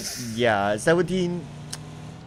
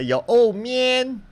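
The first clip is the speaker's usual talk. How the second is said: game voiceover; 10 semitones higher, 4 dB louder, much slower than usual. Shown as a demonstration.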